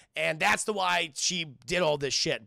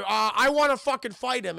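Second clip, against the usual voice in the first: mock eager; 6 semitones higher, 6 dB louder than usual. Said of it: "And he's like".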